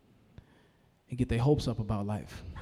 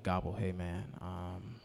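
lower, soft turkey voice with gobbles; gobbling turkey; 8 semitones lower, 13 dB quieter than usual. Acted. Upset turkey confiding in a pig, gobbling softly. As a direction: slip gobbles into the words, subdued. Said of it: "Turkey walk up on a pig like".

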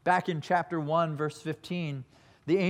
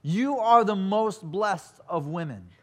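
louder and slower, bursting with joy; loud, excited; 3 semitones higher, 4 dB louder, slower than usual. Shown as a demonstration. Preacher voicing Elizabeth's greeting to Mary, loud and excited. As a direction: proclaim it as a joyful blessing. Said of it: "She says it loudly, with excitement".

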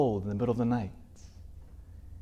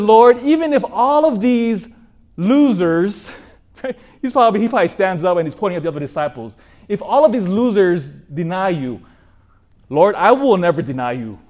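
loud, higher, proud and sure of himself; boastful vow; 4 semitones higher, 6 dB louder than usual. Acted. Peter to Jesus at the supper, a loud boastful vow. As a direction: puff up and swear it to the room.

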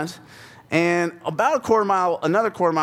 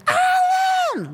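screaming a name. Retold or imitated. Mom screaming for dad from the yard, panicked shout. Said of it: "what she was screaming, she was going".

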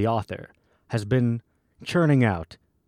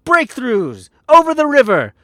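grandiose poem declamation. Acted. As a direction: declaim it like a prophet crying out to a crowd. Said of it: "read it in the only way I felt appropriate for such a grandiose".

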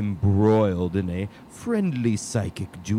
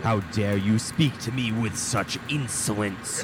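evil queen; 3 dB quieter than usual. Acted. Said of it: "The great wizard is angry".

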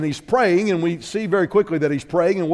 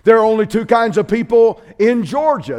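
preaching climax; 3 semitones higher, 5 dB louder than usual. Shown as a demonstration. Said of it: "I'm gonna shoot straight".

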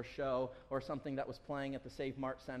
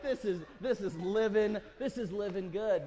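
a laughing, lightly voiced happy boy; delighted kid; 5 semitones higher, 5 dB louder than usual. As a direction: savour it like a kid in heaven. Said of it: "he's like".

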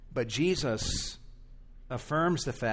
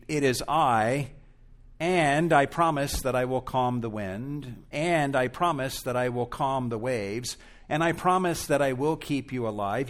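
mock long-winded promise. Jesus imagined over-reassuring his disciples, mildly insistent. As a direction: list the promises with building insistence. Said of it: "He doesn't say".

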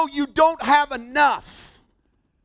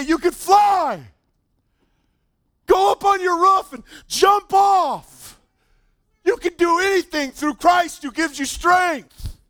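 mock hype preacher; 7 semitones higher, 3 dB louder than usual. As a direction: preach it like a wild hype man. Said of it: "If I stood up here and say".

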